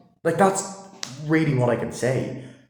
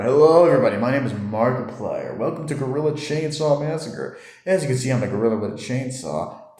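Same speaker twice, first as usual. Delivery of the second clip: imitating Markiplier; 3 semitones higher than usual. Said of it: "you get Markiplier going".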